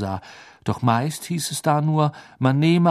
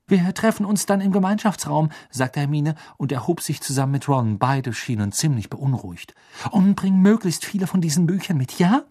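higher and louder parting orders; Hermine, urgent; 5 semitones higher, 4 dB louder than usual. Acted. Hermine telling Harry to bring the books, higher and louder. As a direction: fire off instructions on the way out.

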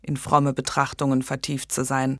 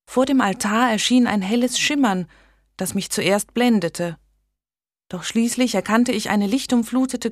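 a lightly voiced young woman, higher, telling of a vision; earnest young lady; 5 semitones higher than usual. Megan tells of her vision.

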